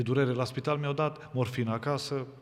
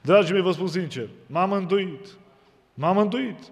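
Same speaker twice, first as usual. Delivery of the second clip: fervent proclamation; 6 semitones higher, 5 dB louder than usual. Real, not acted. Preacher proclaims own salvation.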